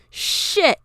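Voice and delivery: high, loud panicked shout; sudden outburst. A narrator's reading. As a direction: blurt it out. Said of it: "he suddenly declared".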